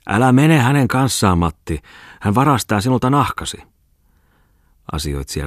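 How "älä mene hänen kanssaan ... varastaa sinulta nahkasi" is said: high, louder warning cry; shouted warning. A narrator's reading. Enok calls to Matti not to go with Ripatti, shouting. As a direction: call out a warning, pitched up. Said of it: "Enok huusi".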